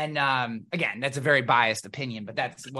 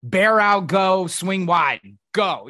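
louder, slowed barking of the play; barked play call; 3 semitones higher, 6 dB louder, much slower than usual. Retold or imitated. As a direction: bark the calls to the line. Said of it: "I would just be like".

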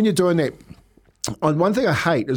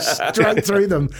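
laughing; 4 semitones higher, much slower than usual. Retold or imitated. Retold vow while racing.

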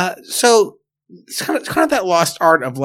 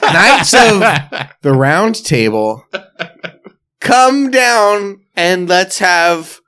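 town crier; 3 semitones higher, 4 dB louder, slower than usual. Pretend. Medieval pizza announcement.

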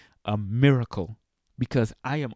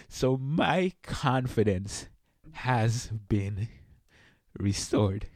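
slow, soft, choking up; fighting back tears; choked up; 2 semitones lower, 4 dB quieter, slower than usual. Real, not acted. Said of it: "I'm all teary-eyed now".

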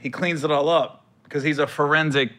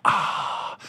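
breathy mock moan; 5 dB quieter than usual.

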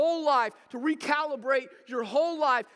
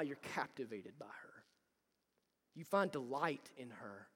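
whisper; 10 semitones lower, 14 dB quieter than usual. Real, not acted. Tender point in sermon.

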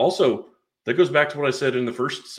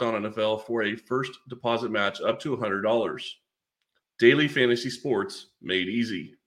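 ad read. Acted. Sponsor ad read.

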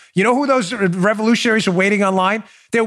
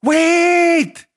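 loud, high drawn-out plea to stay; Braveheart battle cry; 8 semitones higher, 4 dB louder, much slower than usual. Acted. Rallying fleeing Scots in battle, drawn-out shouted plea. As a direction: cry it out slowly like a battlefield commander. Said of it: "from Braveheart".

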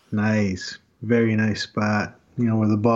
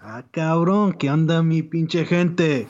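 lucha libre announcer. Acted. Podcast opening hype intro.

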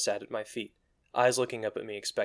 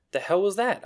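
talking around burnt fingers in mouth; words muffled by fingers in mouth; 9 semitones higher, 4 dB louder than usual. Acted. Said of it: "I asked in a muffled tone".

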